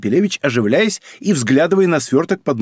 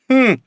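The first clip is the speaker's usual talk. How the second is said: higher scoffing hmph; a short scornful grunt through the nose; dismissive hmph; 10 semitones higher, 4 dB louder than usual. A narrator's reading. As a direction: skeptical little hmph. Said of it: "хмыкнул Капелевич".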